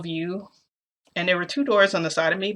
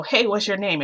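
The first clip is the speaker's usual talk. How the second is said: higher-pitched mock call-out; retold call; 4 semitones higher, 3 dB louder than usual. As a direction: mildly hail someone hidden, as in a retelling. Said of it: "So I yell again".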